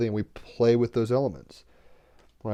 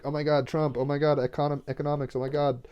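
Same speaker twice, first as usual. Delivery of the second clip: higher-pitched imitation of worriers; mock fretting; 4 semitones higher than usual. Imitating people stuck on politics and economics, mock fretting. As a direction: lightly mimic people fretting over the news.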